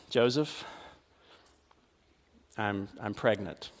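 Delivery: Mary's fearful near-whisper to Joseph; hushed confession. Acted. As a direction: barely get the words out to him. Mary confesses pregnancy.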